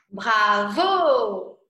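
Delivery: "Bravo" shouted loud like applause; cheering shout. Shown as a demonstration. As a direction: call out "Bravo" to a performer.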